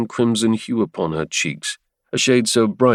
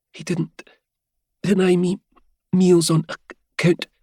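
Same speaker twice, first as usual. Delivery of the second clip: Helia voice; 9 semitones higher than usual. Acted. Helia voiced, faint, slow.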